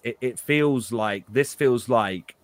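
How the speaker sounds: slow, hesitant, weighing each word; choosing words carefully. Real, not acted. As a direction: hold back, pick every word slowly. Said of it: "trying to choose my words very carefully here".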